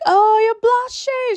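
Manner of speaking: high, loud mock shout of the friend. Imitating Nell shouting at Mel that she blushes, loud mock shout. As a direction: belt it out like the overexcited friend. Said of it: "She was proper shouting as well".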